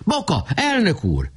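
high urgent repeated call; calling again. A narrator's reading. Nemecsek calling Boka again from a distance, high urgent call. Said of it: "Újra kiáltott".

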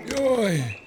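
high little wail; high, contained storybook exclamation; narrated cry. A narrator's reading. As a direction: cry out in mild dismay. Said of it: "kiáltotta a másik".

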